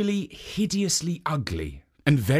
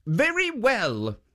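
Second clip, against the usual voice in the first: lightly voiced statue; 9 semitones higher, slower than usual. Jitso agrees.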